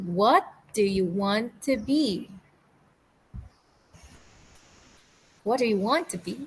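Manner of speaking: unhurried, deliberate, slightly slowed reading. Modeling the practice sentence for grade 5 and 6 students, a bit slow. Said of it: "a bit slow".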